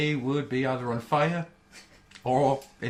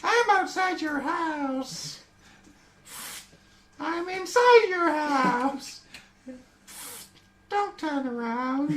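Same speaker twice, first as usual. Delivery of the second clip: heavy breathing phone whisper; 11 semitones higher, slower than usual. Acted. Creepy stalker lines, slow.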